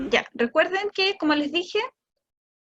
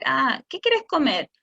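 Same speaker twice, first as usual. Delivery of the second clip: slow modeling voice; slower than usual. Shown as a demonstration. Parent offering fruit to child, slow and clear. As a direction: ask the child slowly, stretching plátano. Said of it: "tú le quieres decir".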